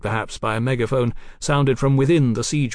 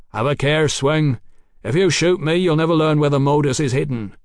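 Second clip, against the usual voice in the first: raised, louder warning; called warning; 4 semitones higher, 4 dB louder than usual. Acted. Doctor warns the captain not to shoot, calling out. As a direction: call out a stern warning over the ramparts.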